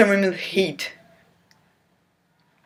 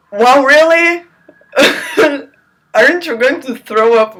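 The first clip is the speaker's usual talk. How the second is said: high, louder mocking disbelief; incredulous laugh; 7 semitones higher, 5 dB louder than usual. Real, not acted. Reader laughing at the book, high and loud. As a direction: laugh at the gross line.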